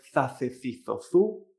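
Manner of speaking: za, ce, ci, zo, zu with Castilian lisped th; the Spanish th sound in za, ce, ci, zo, zu; Spanish Z, as wrong example. Shown as a demonstration. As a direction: recite za, ce, ci, zo, zu with tongue between the teeth. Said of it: "no es como la española".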